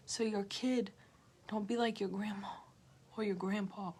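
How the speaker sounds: soft unvoiced whisper. Real, not acted. Telling viewers to heal for their kids, a whisper. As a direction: murmur it under breath.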